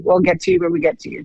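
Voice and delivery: mock high, fast brush-off voice; dismissive ER staff. Retelling the ER staff's brush-off in a mock high, quick voice. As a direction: rattle it off high and quick like bored hospital staff. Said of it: "It's like".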